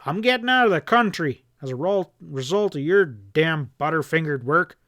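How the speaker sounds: shouting. Acted. Boss shouting threats at his bungling partner. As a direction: threaten him at full voice. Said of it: "Hanlon shouted".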